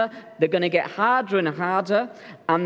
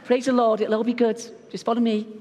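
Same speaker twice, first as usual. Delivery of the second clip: higher, bright call to keep going; Andy urging the tired women upward, higher and cheery; chirpy coaxing; 5 semitones higher than usual. Retold or imitated. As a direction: cheer them on up the hill. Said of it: "And Andy's like".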